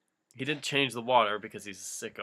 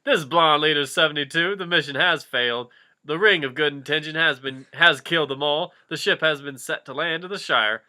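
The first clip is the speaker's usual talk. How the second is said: radio call; 5 dB louder than usual. Acted. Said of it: "Legolas picked up the radio".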